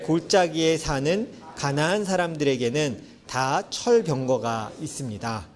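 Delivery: slow, measured reading from the Bible; scripture reading. Acted. Pastor reading scripture slowly to the congregation. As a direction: read the verse slowly to the congregation.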